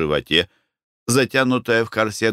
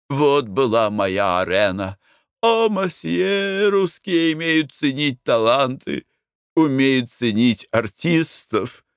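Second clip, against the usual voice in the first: higher, slow, theatrical foreign lady; faded French singer; 5 semitones higher, slower than usual. Acted. Owner boasting of her singing career to the Russians, theatrical. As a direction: play a vain ex-singer lamenting her lost voice.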